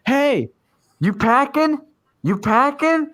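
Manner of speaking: high-pitched mock challenge; imitated confrontational stranger. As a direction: imitate an agitated man calling out a question. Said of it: "couldn't understand what he was saying".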